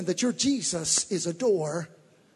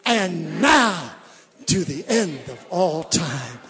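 slow solemn recital; 2 semitones lower, 3 dB louder, much slower than usual. Shown as a demonstration. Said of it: "Are you ready?".

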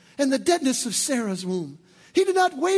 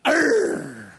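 short, louder mock growl of frustration; frustrated growl; 3 semitones higher, 5 dB louder than usual. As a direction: growl it out through your teeth. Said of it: "inside you're going".

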